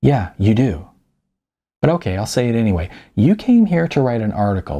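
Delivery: put-on calling him out, young woman. Samantha confronting him.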